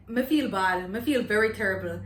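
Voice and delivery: Me feel bad in Jamaican patois. Shown as a demonstration. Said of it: "my first Jamaican lesson video".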